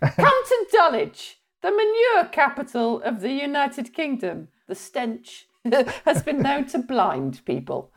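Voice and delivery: high, drawn-out promo voice opening; grand, slow mock slogan; mock tourism advert. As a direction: sell the stink like a tourist-board announcer. Mock tourism advert for manure capital.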